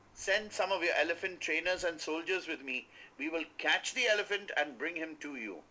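high, loud eager pitch; eager flatterer. A narrator's reading. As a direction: sell the elephant to the king eagerly. Man flatters king for reward.

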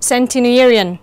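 "centenarian" stressed on NAR, the third syllable. Shown as a demonstration. Teacher demonstrating word stress for students, stress on third syllable. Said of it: "nó cũng nhấn vào âm thứ ba".

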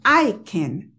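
"can" with a plain unstressed A; wrong pronunciation. Shown as a demonstration. Teacher showing what Americans don't say. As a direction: say "can" flat, without stress on can. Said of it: "Ellos no dicen".

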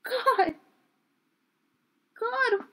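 high, loud, panicked cry; horrified. A narrator's reading. Eleanor shuddering in the corner over the hand, horrified. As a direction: cry out aghast, stumbling on the first word.

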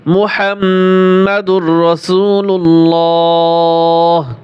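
drawn-out, sung-through Arabic recitation; ধীর সুরেলা তিলাওয়াত; slow melodic recitation. Shown as a demonstration. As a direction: chant the kalema slowly with a full heavy লা. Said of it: "আল্লাহ লামটা মোটা হবে".

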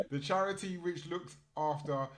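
reading through laughter; laughing. Real, not acted. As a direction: giggle through the words. Repeats line while laughing.

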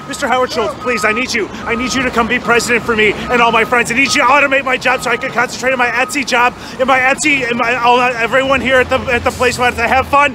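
low-voiced desperate plea; low pleading. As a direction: drop the voice and plead. Lower begging rant.

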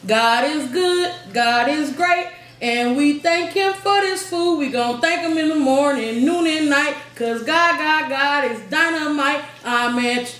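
rhythmic mealtime grace recited; sing-song prayer. Pretend. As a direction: chant the grace like a rhyme. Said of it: "why don't you say prayer".

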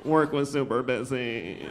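slow, drawn-out mocking repeat, sinking at the end; mocking echo. Tired parent echoing a childless friend's complaint, slowly mocking. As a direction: parrot the complaint back with weary scorn.

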